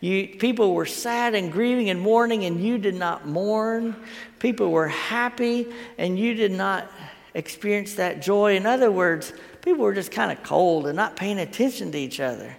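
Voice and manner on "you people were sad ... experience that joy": louder, mildly indignant rebuke of a crowd; retold tirade, raised and emphatic; mad scolding. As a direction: scold them like a fed-up preacher. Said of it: "he's mad".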